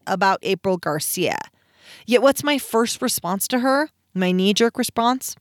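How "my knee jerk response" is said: "knee-jerk" with the weight landing on "jerk"; stress on jerk. Shown as a demonstration. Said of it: "emphasize on the word jerk".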